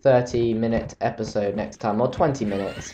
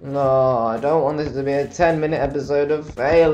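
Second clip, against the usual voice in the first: whining complaint; 3 semitones higher than usual. Real, not acted. Gamer whining about failing.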